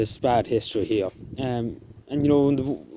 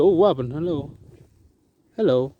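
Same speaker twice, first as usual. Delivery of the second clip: higher-pitched, pleasantly surprised hello; delighted greeting; 4 semitones higher, 3 dB louder than usual. Real, not acted. Vlogger spots a robin beside him, delighted greeting. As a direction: break off to greet a little bird.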